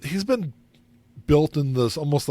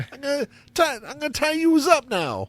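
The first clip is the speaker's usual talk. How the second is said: hammed-up New Jersey kidnapper; New Jersey Chuck; 10 semitones higher than usual. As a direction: say it like a Jersey goon. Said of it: "a guy named Chuck that lived from New Jersey".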